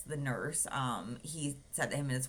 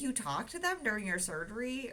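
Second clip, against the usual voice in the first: mock incredulous sister; 8 semitones higher than usual. Sister asks in disbelief.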